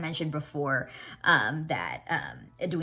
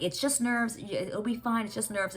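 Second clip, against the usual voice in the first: lightly voiced mom, higher pitch; reassuring mom; 6 semitones higher than usual. Mom calming Edwina's nerves, reassuring. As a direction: soothe in a higher voice, lightly acted. Voices mother soothing the bride.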